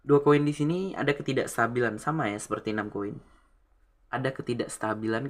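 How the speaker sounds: talking while smoking; words around a cigarette; cigarette in mouth. Real, not acted. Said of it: "saya sambil ngerokok ya". (bicara sambil merokok)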